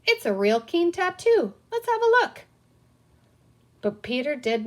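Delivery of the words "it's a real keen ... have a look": high, loud eager pirate voice; a pirate admiring the boy's tattoo, eager. A narrator's reading. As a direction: gush over it like a delighted child. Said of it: "wiggling his eyebrows in admiration".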